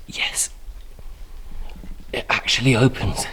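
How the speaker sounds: soft, quietly pleased discovery; hushed triumph. Real, not acted. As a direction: keep the excitement under your breath. Quietly opening hatch near bats.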